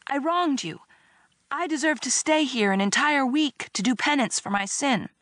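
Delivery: high-pitched, hammed-up penitent plea; wailing. A narrator's reading. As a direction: wail it in mock remorse. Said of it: "I wailed".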